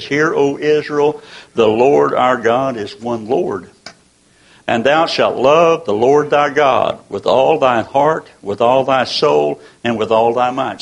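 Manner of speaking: slow, measured scripture read; solemn King James reading, slow. Acted. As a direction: read the verse with reverent weight.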